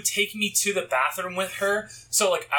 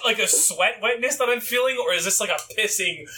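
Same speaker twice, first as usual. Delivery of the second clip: panicked inner thought. Retold or imitated. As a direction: fret over whether it's sweat or pee. Acted inner panic, higher.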